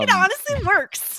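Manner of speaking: real amused laugh-shout. Real, not acted. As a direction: laugh out the words. Laughing over the poop joke.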